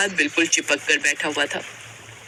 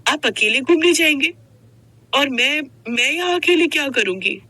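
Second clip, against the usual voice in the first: shocked; 5 semitones higher than usual. Acted. Wife shocked at being left.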